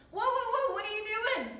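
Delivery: high-pitched retold "whoa, whoa"; alarmed objection. Partner stops her at door.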